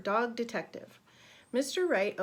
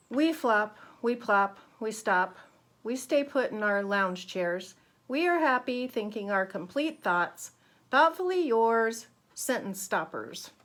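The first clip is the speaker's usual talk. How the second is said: relaxed postcard voice; 8 dB louder than usual. Acted. Reading periods' postcard aloud.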